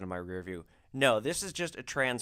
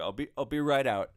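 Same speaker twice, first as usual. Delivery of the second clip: put-on slurred drunk voice, a bit louder; 3 semitones higher, 5 dB louder than usual. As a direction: sound tipsy and sloppy. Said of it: "like, a drunken voice".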